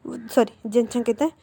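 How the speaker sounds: normal talking voice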